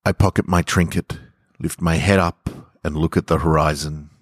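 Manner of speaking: calm, measured storytelling read; story narration. A narrator's reading. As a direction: read it gently like a bedtime story. Reads story to podcast listeners.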